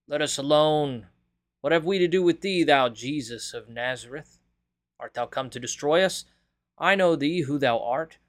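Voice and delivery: crying out. A narrator's reading. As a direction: cry out in alarm at Jesus. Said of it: "he cried out".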